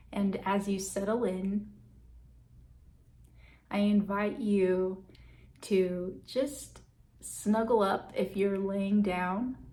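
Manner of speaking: calm meditation guide with long, settling pauses; guided meditation. Real, not acted. Guide leading listeners to check in on breath and body, guided meditation. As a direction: ease listeners inward, leaving space between phrases.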